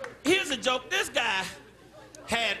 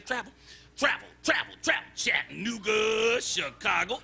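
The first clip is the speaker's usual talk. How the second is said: looking it up. Acted. Forgetful man looking up travel.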